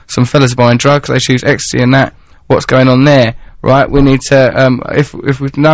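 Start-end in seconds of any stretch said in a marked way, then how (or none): 0.1-3.4 light Mancunian accent copying his co-host. Shown as a demonstration. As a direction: read it again as Carl, in a Manchester accent. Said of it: "because this is in your accent".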